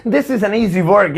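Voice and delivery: very slow, with a laugh; slow teaching read; slow model sentence. Shown as a demonstration. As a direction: say it slowly for learners. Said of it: "जैसे मुझे कहना है".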